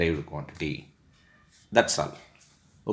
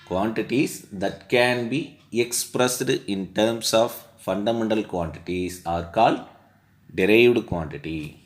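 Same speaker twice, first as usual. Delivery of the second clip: slow, emphatic textbook read-out; definition dictation; slower than usual. Real, not acted. Teacher reads derived quantities definition from the textbook, slow dictation. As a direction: dictate slowly with drawn-out key words.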